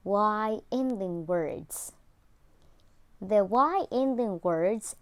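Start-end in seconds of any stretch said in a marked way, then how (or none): 0.1-1.9 whispered repeat. Shown as a demonstration. Teacher whispering the topic to her class. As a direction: whisper Y ending words.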